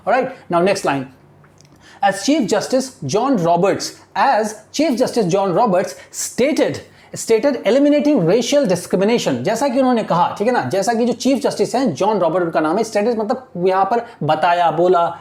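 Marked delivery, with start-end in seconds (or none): 2.0-9.4 very slow, word by word reading; slow classroom dictation of English text. Shown as a demonstration. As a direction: read it out slowly so students follow. Teacher dictating newspaper line slowly.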